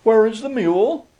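high-pitched, gentle question; a wife's gentle inquiry, pitched high. A narrator's reading. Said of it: "very gently".

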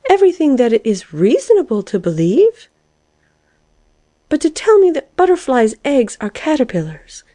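high, incredulous argument; protesting caterpillar. A narrator's reading. Caterpillar disputing the lark's news, incredulous. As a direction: argue in a high character voice.

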